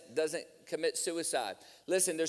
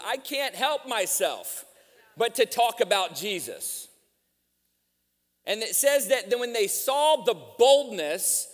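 raised, driving sermon delivery; preaching; 5 semitones higher, 6 dB louder than usual. Real, not acted. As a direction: preach it with rising force to the congregation.

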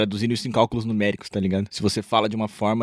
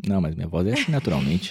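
dropping voice deep; 4 semitones lower than usual. Pretend. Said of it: "você já engrossou a voz".

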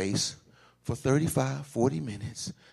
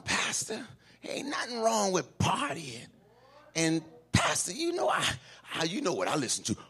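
imitating a churchgoer; 3 semitones higher than usual. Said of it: "this is what we say".

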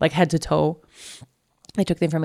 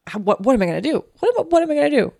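rising, louder desperate question; panicked plea; 8 semitones higher, 4 dB louder, much faster than usual. Retold or imitated. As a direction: voice climbing in panic.

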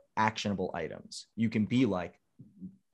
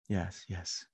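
understated, self-satisfied wine-snob voice; douchebag sommelier; 5 dB louder than usual. Acted. Actor playing a fake wine expert, lightly voiced snooty sommelier. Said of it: "sommelier douchebag, for last, lack of a better term".

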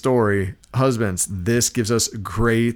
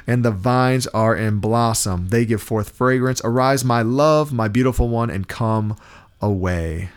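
slow, measured Bible reading; scripture reading. Acted. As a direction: savour the verse as you read it aloud. Reads scripture with an aside.

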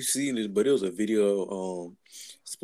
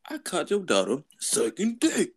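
slow, raised granddad impression; 5 semitones higher, slower than usual. Imitating the granddad at the family meeting, accusing. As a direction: announce it slowly as a comic granddad. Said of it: "he was playing a granddad".

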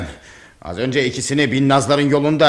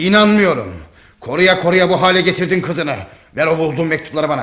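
raised, angry accusation; 2 semitones higher than usual. Acted. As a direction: refuse to believe her, angrily blaming. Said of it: "Mahmud'um öfkelisin". (öfkeli, yüksek perdeden suçlama)

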